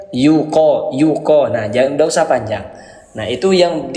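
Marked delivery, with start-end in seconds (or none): 0.1-1.5 yuko said short and clipped, no lengthening; short vowels. Shown as a demonstration. Teacher reading Quran to parents, short vowels. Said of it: "Dibaca pendek".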